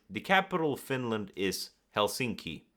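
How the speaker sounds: Helsinki drops firmly at the close; confident falling end. Shown as a demonstration. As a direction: state it as plain fact, Helsinki falling. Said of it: "I would answer it".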